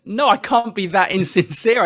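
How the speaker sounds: retold indignant denial, amused; laughing protest. Retold protest to his wife.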